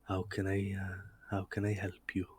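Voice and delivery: put-on soft Irish-accented shopkeeper, slipping toward Welsh; intended Irish accent. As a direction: attempt an Irish accent, trailing off softly. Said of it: "supposed to be an Irish accent".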